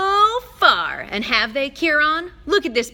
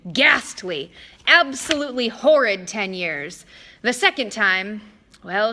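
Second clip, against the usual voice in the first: louder, whiny pouting complaint; Mister D pouting about his punishment; pouting kid; 5 dB louder than usual. Acted. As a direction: sulk like a little kid. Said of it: "sounded about six years old, like a pouting little kid".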